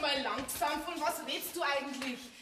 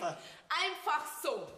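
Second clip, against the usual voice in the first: slow skeptical drawl; 2 semitones lower, much slower than usual. Acted. Musst jetzt du mir alles nachbauen.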